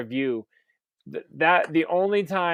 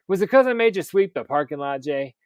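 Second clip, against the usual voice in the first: laughing. Retold or imitated. Stepdad quote, laughing.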